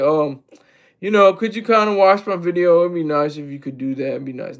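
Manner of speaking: half-hearted little plea, dropping to a murmur; mock timid plea. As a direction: beg meekly for views, trailing off. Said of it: "If I calm down, I'm gonna be like".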